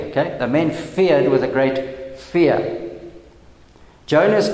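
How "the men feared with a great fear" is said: slow repeat, stressing "feared" and "fear"; "fear" set apart slowly after a stressed "feared"; double emphasis. Shown as a demonstration. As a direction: draw out the line, weighting "feared" and "fear". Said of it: "that's a double emphasis on fear".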